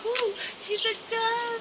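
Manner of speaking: imitating her friend. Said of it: "She goes".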